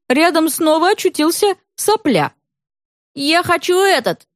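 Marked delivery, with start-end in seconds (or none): 3.1-4.3 put-on high whiny little boy; shrill child's whine; boy Soplya demanding. A narrator's reading. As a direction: demand it like a spoiled kid. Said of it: "объявил он Свете".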